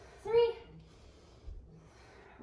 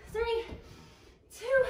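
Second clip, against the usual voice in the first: rising shouted countdown, higher and louder each number; counting down louder; 11 semitones higher, 5 dB louder than usual. Real, not acted. Coach to class, the countdown builds to a high shout. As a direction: coach pushes them through the last seconds.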